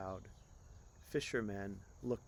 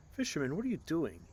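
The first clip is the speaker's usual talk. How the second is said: commanding; 6 semitones higher, 5 dB louder than usual. Acted. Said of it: "his deepest, most commanding voice".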